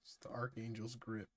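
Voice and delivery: hushed, secretive whisper. Acted. Joking whisper about grip.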